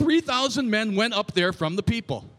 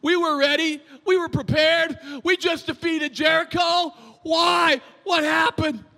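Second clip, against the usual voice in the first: Joshua; 5 semitones higher than usual. Retold or imitated. Preacher voices Joshua questioning God after defeat, whining. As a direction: build into a high, baffled plea. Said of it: "he's whining before God".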